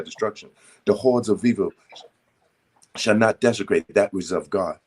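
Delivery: steady, commanding prayer recital; decree prayer. Acted. Brother recites Saint Germain's daily decrees as a solemn prayer.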